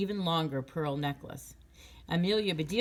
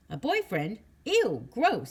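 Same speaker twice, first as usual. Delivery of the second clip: loud, high disgusted squeal; girl rejecting the idea of a boyfriend, disgusted; grossed out; 6 semitones higher, 6 dB louder, slower than usual. Acted. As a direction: recoil from the idea.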